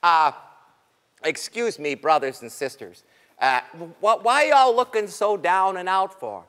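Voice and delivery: put-on low, gentle old rabbit. Old Rabbit to frightened creatures, low and concerned.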